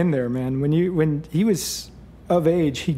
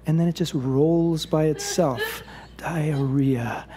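smitten savoring; slower than usual. Acted. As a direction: let the words roll dreamily. Smitten prince savours the rolling name.

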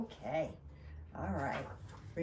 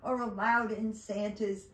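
elf's cry; 5 dB louder than usual. Acted. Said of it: "cried the elf".

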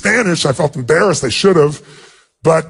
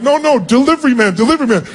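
re-enacted high-pitched hurried protest; flustered protest; 8 semitones higher than usual. Telling a grateful woman he's only the delivery man, flustered protest. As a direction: protest urgently in a raised pitch, playing yourself.

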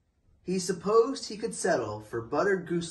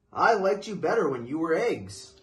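louder grumpy complaint; stern bear scolding the gooselings, louder; 3 semitones higher, 6 dB louder than usual. Acted. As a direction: grumble it like a cross bear. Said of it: "Bruce was very stern".

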